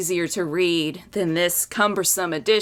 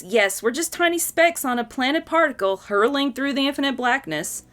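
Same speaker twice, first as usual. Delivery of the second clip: Calvin musing; 6 semitones higher than usual. Acted. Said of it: "And Calvin says".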